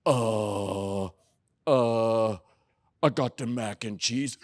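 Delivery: a lightly voiced, hesitant little kid; little boy caught. Toddler son caught hiding mac and cheese, sheepish. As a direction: sound like a toddler caught red-handed.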